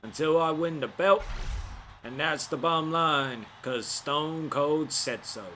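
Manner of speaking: lightly voiced Stone Cold, barely changed; a hint of a gruff wrestler trash-talking. Gamer doing a weak Stone Cold trash-talk impression. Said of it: "Not a good Stone Cold voice".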